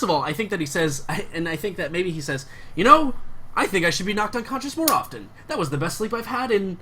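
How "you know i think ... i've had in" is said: higher, delighted gushing; thrilled to have finally slept; giddy. Acted. Guard gushes about his sleep.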